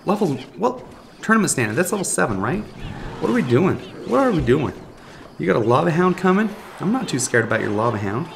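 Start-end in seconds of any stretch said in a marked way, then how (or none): none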